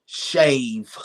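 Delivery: breathy whisper of the one word Shave; Shave. said as a hushed whisper, falling; whispered answer. Real, not acted. Asked for his deal breaker, he whispers the answer.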